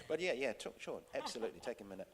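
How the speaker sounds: suddenly soft, reassuring reply; feigned calm. Retold or imitated. Director hiding panic from an actor, feigned calm. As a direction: drop to a soothing, accommodating murmur.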